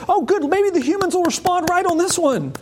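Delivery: high, hopeful musing. Pretend. God hoping humans finally respond, hopeful and high. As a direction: lift the voice in eager hope. Voicing God's hopeful thought.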